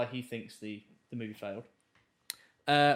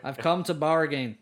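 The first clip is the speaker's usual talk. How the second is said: Doctor Strange impression; 6 dB louder than usual. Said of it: "I can do an American accent".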